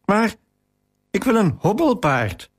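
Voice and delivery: put-on a child's understated weepy wail; crying out. A narrator's reading. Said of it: "riep ik huilend uit".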